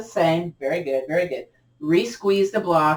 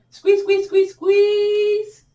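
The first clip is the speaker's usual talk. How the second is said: very high repeated squeal, last one held; urging squeeze; 14 semitones higher, 4 dB louder, much slower than usual. Real, not acted. Instructor cheering on the last big squeeze, high and urging. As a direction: push them through the big one in a high voice.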